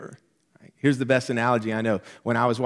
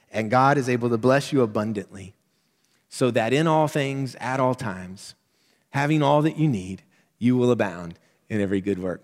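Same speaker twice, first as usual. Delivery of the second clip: measured reading with stress on each all; scripture reading. Shown as a demonstration. Preacher reading verse to congregation, measured. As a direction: read the verse steadily, leaning on all. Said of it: "Let me say it again".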